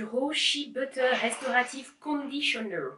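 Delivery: a clumsy French take on an English accent; bad English accent. Real, not acted. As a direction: read the English brand name with a rough English accent, laughing at yourself. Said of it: "mon accent anglais pourri". (accent anglais approximatif sur le nom du produit)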